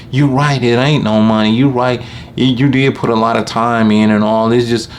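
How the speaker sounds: half-hearted customer admitting he's right; conceding lady. Retold or imitated. Lady concedes the work was hard.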